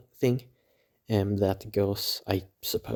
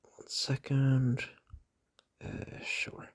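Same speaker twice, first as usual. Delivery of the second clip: whispering; 6 semitones higher, much slower than usual. Real, not acted. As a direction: whisper it under your breath. Whispering aside while recording.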